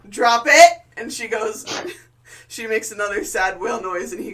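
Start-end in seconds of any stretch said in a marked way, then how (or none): 0.1-0.8 loud, firm dog command; sharp command. Acted. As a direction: bark it like a dog trainer.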